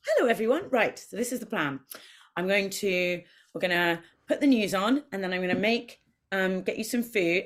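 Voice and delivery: greeting the cats. Retold or imitated. Greeting her cats at the front door, cheery. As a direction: talk to the cats like a host briefing guests. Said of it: "I come and I go".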